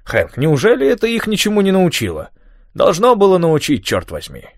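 put-on high, worked-up old man rant; agitated old man. A narrator's reading. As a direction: rant to keep the boy going. Tom ranting about weather.

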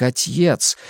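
«отец» said as ать-ец in narrator's voice; odd pronunciation of отец. A narrator's reading. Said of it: "Слово это она произнесла как". («отец» с разделением: «ать-ец»)

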